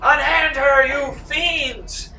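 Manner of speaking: high, loud gallant cry; heroic shout. Acted. Patrick defends the wounded woman, heroic loud shout. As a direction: bellow it like a dashing hero. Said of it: "Patrick yells out".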